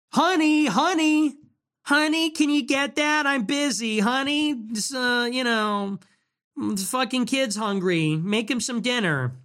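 high, whiny wife calling honey over and over; nagging wife voice. Retold or imitated. Husband imitating his nagging wife, high and shrill-sounding. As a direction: play the wife pestering her busy husband.

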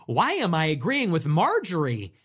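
lightly mocking a puzzled liberal, flat. Liberal viewers mock-wondering aloud, lightly puzzled. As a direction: muse it to yourself in mild disbelief. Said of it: "started to say".

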